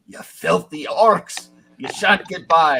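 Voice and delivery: angry knight. Acted. Ghost knight to the party he thinks are orcs, slow angry bellow. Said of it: "He's like".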